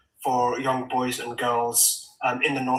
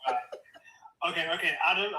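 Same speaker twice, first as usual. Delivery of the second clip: breathless surprise; 5 semitones higher, 5 dB quieter than usual. Real, not acted. Guest overwhelmed by host's news.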